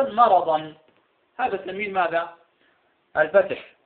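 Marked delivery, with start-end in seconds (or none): 0.0-0.7 "مرضا" said "maradan", with an audible final n; tanween spoken out. Shown as a demonstration. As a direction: sound the nun at the end of "مرضا". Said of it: "إذا نطقناها هكذا مجازا".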